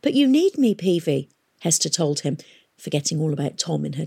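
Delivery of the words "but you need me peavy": higher, urgent appeal; desperate plea. A narrator's reading. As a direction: plead with some desperation.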